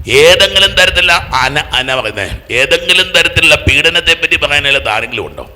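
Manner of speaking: loud, high challenge to the crowd; forceful preaching. Real, not acted. Preacher asking who here has no complaint, forceful preaching.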